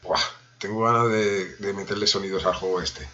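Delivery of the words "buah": normal talking voice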